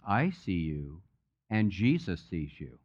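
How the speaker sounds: lightly voiced little voice, pitched low; a hint of a small, mysterious voice, kept low. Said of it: "he hears this little voice".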